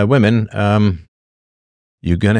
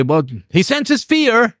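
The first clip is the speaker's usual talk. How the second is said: much higher and slow, a smug dog owner; 13 semitones higher, slower than usual. Retold or imitated. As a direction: play the know-it-all owner, drawn out and high. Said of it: "And I'll say".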